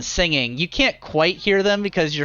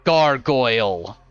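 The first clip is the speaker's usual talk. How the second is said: lower, slow, deliberate stone voice; slow gargoyle name; 4 semitones lower, slower than usual. Acted. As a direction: say his own name like a statue. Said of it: "and he goes".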